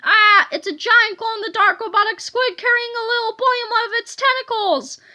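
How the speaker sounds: high, loud storybook panic; panicked scream. A narrator's reading. Young man spots a giant squid, crying out high. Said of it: "looked up from his phone and screamed".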